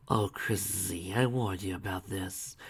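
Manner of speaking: slow, soft consoling; calm a crying daughter; gentle slow reproach; soothing. Acted.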